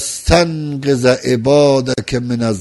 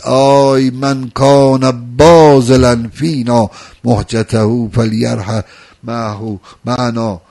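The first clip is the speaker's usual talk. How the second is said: slow, drawn-out mock proclamation; retold call to mankind; 4 dB louder, much slower than usual. Husayn calling to all mankind in Mecca, a mild mock call. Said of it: "داد زد به همهٔ بشریت".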